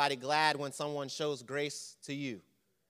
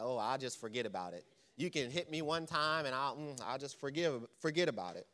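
quick, quiet, pious-sounding put-on; mock holy; 2 semitones lower, 6 dB quieter than usual. Preacher teasing the congregation with quiet mock piety. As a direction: lightly parody the too-holy churchgoer. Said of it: "Or y'all all so holy that".

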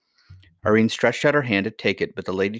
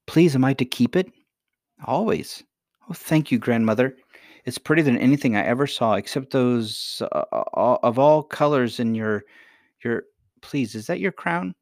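higher-pitched, delighted little princess; eager young princess; 5 semitones higher than usual. Acted. Princess thanking grandmother for the ring, eager. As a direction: voice a polite, wondering girl, pitched up.

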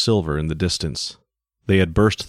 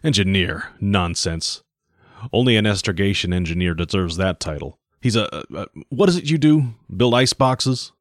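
mocking captain. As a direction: belittle his job. Captain mocks the engineer.

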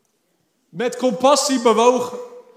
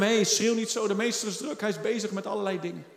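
quiet, dropping voice; crowd hushing someone; 9 dB quieter than usual. Acted. Crowd telling blind man not to bother the master, hushed. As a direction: shush him under your voice, getting quicker. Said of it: "De menigte zei tegen hem".

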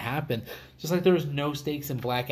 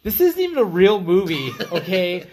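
loud, laughing mock indignation; laughing outrage; 2 semitones higher, 6 dB louder than usual. Watching Vin Diesel beat The Rock, loud laughing outrage. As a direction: scoff loud through laughter at the fight. Retells his outraged reaction.

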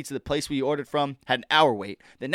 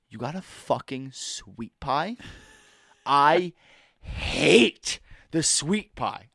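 disgusted; much slower than usual. Retold or imitated. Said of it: "He goes".

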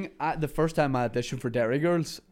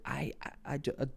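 nervous hush; 10 dB quieter than usual. Retold or imitated. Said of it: "I was like".

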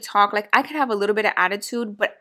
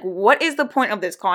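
stern attitude. Retold or imitated. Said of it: "I'm like".

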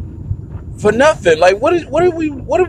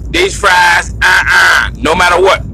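mock complaining customer; 4 dB louder, slower than usual. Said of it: "she be like".

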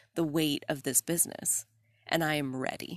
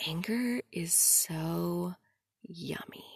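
coach's delight; 3 dB quieter than usual. Retold or imitated. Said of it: "she was like".

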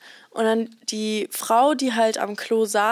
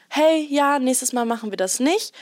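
polite and friendly; 3 semitones higher than usual. Retold or imitated. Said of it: "ich kann halt nicht so gemein in solchen Momenten sein".

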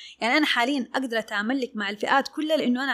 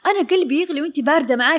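mock heated complaint, a little raised; imitated heated client; 3 semitones higher, 5 dB louder than usual. Fiery client reproaching her cool dressmaker, mildly heated imitation. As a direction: retell her worked-up reproach. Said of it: "إن هي تتصل بهجوم".

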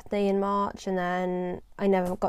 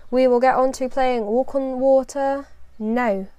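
put-on slow, drawn-out Scottish accent, pitched up and louder; 4 semitones higher, 5 dB louder than usual. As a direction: announce the next song in a hammed-up Scottish accent. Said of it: "Sorry for that Scottish accent right there".

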